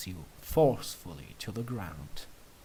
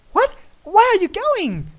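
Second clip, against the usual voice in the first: alarmed surprise; 13 dB louder than usual. A narrator's reading. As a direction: call after him in shock. Luna alarmed as you leave.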